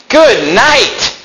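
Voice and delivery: high-pitched exclamation of dismay; hammed-up cry of alarm; mock crying out. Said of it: "crying out, saying".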